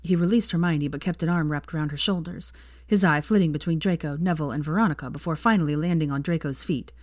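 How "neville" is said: usual speaking voice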